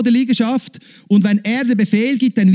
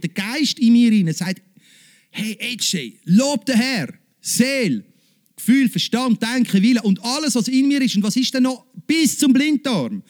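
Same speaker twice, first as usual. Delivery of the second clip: raised, driving sermon voice; lightly heated pulpit delivery; fervent preaching; 3 semitones higher than usual. Acted. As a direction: preach it with rising fervour.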